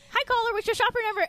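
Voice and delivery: high, fast, bright host greeting; cheery radio host. Retold or imitated. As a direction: greet the caller like a peppy host. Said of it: "I'll go".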